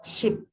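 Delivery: "Ship" with a brief vowel; short vowel. Shown as a demonstration. Teacher giving an example of shorter E, short vowel. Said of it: "with a shorter duration in word ship".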